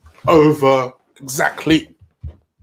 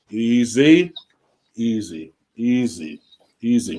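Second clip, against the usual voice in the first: soothing the dog; 2 semitones lower, slower than usual. Real, not acted. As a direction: settle a stressed dog down gently. Calming the stressed dog mid-show.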